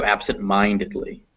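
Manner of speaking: "absent-mindedly" with main stress on MIND, falling away after. Shown as a demonstration. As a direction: model "absent-mindedly" leaning on the MIND syllable. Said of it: "that apostrophe, uh, stresses it".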